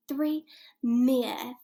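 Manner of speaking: loud and clear, all together; big and loud. Shown as a demonstration. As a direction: call it out loud for the class. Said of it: "say that with me, big and loud".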